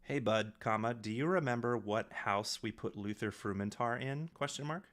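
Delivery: voice-to-text delivery; dictating a message. Real, not acted. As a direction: clear dictation voice, punctuation spoken aloud.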